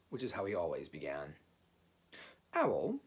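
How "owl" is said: short, raised call of the name; curt. A narrator's reading. Rabbit calling on Owl at his house, curt. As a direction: address him briskly and briefly. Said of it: "said Rabbit shortly".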